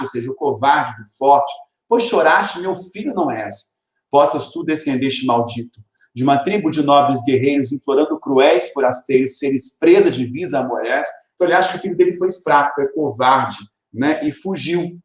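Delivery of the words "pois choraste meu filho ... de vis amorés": poem recitation. Acted. Recites father's reproach from poem.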